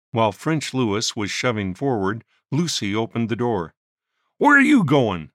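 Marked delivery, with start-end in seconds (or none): 4.4-5.3 a loud shout, higher. A narrator's reading. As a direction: shout after her at the door. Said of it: "Shunk Wilson shouted".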